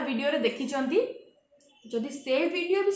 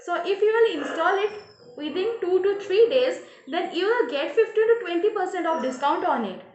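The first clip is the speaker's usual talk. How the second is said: voice muffled by cloth; 3 semitones higher, much slower than usual. Pretend. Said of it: "voice change କରିବା ପାଇଁ ଗୋଟେ କପଡ଼ା ଦରକାର".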